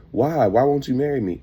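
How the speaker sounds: mock-pleading question, pitched well up; retold plea. Woman begs him to marry.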